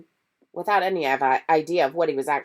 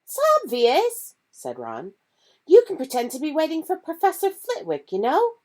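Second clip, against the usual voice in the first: put-on higher boyish voice; lightly voiced eager boy; Ron; 13 semitones higher, 6 dB louder than usual. Ron explaining the plan to Hermione, boyish and higher.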